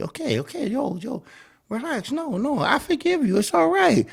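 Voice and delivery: soft, high-pitched panicky reassurance; mock soothing. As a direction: hush her gently, playing the worried boyfriend. Man soothing self-blaming partner.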